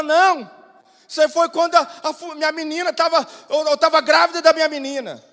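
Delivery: lightly acted tearful insistence; imitated upset wife. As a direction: explain it like a distressed woman. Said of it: "você tá chorando desse jeito".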